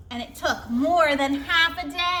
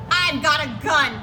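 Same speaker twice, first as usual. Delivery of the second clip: yelled; 2 semitones higher, 5 dB louder than usual. Acted. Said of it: "Dawn yelled".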